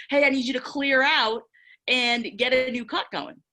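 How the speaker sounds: high, loud call to a teammate on the field. Retold or imitated. Telling a teammate to clear out, called high and loud. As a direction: belt it out like a coach mid-play. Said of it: "why wouldn't I tell her".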